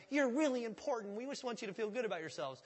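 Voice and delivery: mock hype. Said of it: "I'm pumping it up".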